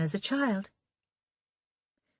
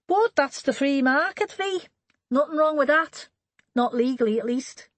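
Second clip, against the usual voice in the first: a touch higher, a teasing grin in it; mild teasing in a lightly voiced man; lightly voiced teasing Jack; 9 semitones higher, 4 dB louder than usual. A narrator's reading. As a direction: needle her with a knowing grin.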